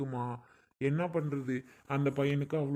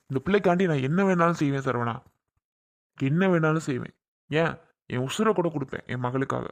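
louder, passionate declaration; emphatic vow; 4 dB louder than usual. Acted. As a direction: swear it with full force. Father defending daughter emotionally. (உணர்ச்சிப்பூர்வமாக உரத்த சபதம்)

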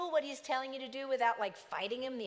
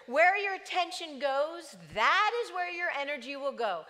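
louder, emphatic restatement; plain preaching; 4 semitones higher, 6 dB louder than usual. Real, not acted. Preacher repeating the slogan to the church, emphatic. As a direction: drive the point home to the congregation. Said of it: "preacher restates the line".

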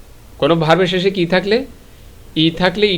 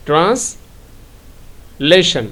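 ট্রান্সলেশন stretched very slowly, syllable by syllable; slow teaching read of ট্রান্সলেশন; drawn-out model word; much slower than usual. Shown as a demonstration. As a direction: spell ট্রান্সলেশন out slowly for the class. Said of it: "teacher drawing the word out".

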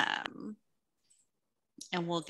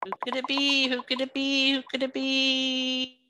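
excited giveaway hype; 3 semitones higher than usual. Real, not acted. Prize wheel spin, building suspense.

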